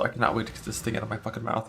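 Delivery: ordinary talk, nothing marked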